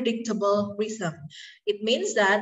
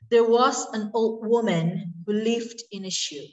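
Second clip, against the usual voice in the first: nursery-rhyme line read with "was", "who", "lived" and "shoe" hit on the beat; metrical stress reading. Shown as a demonstration. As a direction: lean on "was", "who", "lived", "shoe" so the meter comes through. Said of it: "the stressed syllable here is was, who, lived, and shoe".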